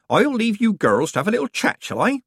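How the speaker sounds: lightly voiced sly old woman; a hint of a knowing old witch; Nanny Ogg teasing the girls.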